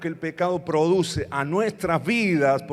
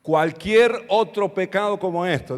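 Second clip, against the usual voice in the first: leading congregational repeat; 3 semitones higher than usual. Shown as a demonstration. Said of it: "diga conmigo".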